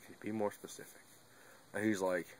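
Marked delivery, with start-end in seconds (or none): 0.0-1.0 much softer, sleepy mumble from bed; half asleep. Retold or imitated. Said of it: "I'm half asleep".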